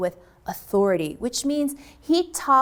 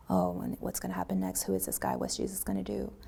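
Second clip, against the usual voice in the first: crowd whispering; 3 semitones lower, 10 dB quieter, faster than usual. Acted. Crowd wonders what happens next.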